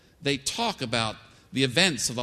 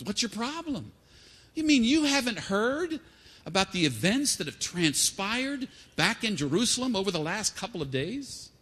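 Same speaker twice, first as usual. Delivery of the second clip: Cleophas; 5 semitones higher than usual. Acted. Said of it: "Maybe I'll be Cleophas for a moment".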